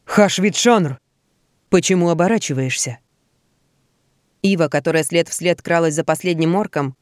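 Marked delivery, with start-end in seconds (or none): 0.1-3.0 orc voice. Acted. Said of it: "обратился к замыкающему".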